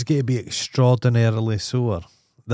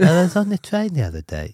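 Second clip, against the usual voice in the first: Kate Moss voice; 9 semitones higher than usual. Retold or imitated. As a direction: send up a famous model's voice. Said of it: "the least sexy voice you've ever heard".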